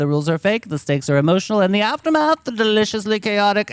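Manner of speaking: dramatic show intro; grand segment announcement; announcer intro. Acted.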